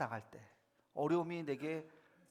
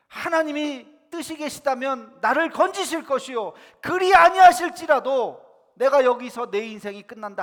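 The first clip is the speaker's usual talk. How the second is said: loud, raised declaration of faith; 담대한 고백; 6 semitones higher, 14 dB louder than usual. Acted. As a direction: proclaim it as one ready to die. Acts out martyr-like confession. (크고 높게 외치는 결연한 고백)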